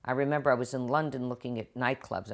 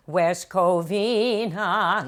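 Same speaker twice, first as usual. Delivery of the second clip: slow, loud, higher drawl of a snobby mother; disdainful mother; 6 semitones higher, 10 dB louder, much slower than usual. Acted. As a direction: sneer out the town name like an appalled mother. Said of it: "She goes".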